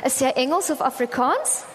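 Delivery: lightly imitated Indian-accented Afrikaans question. Caller asking language preference, lightly imitated Indian accent. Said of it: "the Indian accent says to me".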